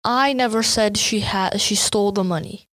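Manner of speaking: "I" pushed hard at the start; opening "I" stressed. Shown as a demonstration. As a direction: lean on the word "I" in "I never said she stole the money". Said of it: "the stress is on the I".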